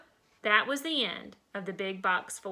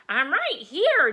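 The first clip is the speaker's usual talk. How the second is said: loud, drawn-out answering call; raised-voice reply through the storm; shouting back; 4 semitones higher, 7 dB louder, slower than usual. A narrator's reading. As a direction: call back higher and louder, stretching the words. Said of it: "Darla shouted back".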